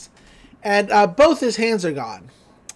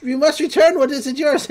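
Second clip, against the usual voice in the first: high, slow, eerie witch voice; witch curse; 5 semitones higher than usual. Retold or imitated. Witch's face in the watch cursing Stan, eerie and high. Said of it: "She's like".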